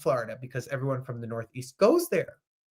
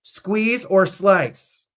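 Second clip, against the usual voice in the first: slow quoted question; 4 semitones higher, 4 dB louder, much slower than usual. Retold or imitated. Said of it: "they ask you this question".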